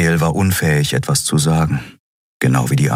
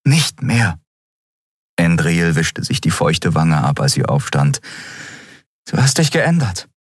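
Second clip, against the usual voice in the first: put-on higher young woman, insistent; Endriel's voice; 6 semitones higher than usual. A narrator's reading. Endriel arguing with Keru, higher insistent young voice. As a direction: lift into her earnest pleading.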